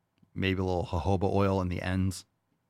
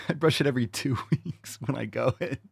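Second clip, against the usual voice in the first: giggling out the words; laughing; 6 semitones higher than usual. Real, not acted. To the audience about his wife, laughing. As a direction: laugh your way through the confession. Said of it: "laughing through it".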